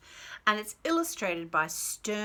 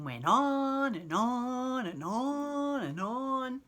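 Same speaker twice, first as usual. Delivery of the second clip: slow drawn-out; 5 semitones higher, much slower than usual. A narrator's reading. Queen drones on.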